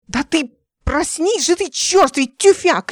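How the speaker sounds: high and loud, slow angry yell; furious insult. A narrator's reading. Ника в ярости кричит на Дмитрия. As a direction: Nika nearly kicking Dmitry, furious shout. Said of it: "чуть не пнула Дмитрия".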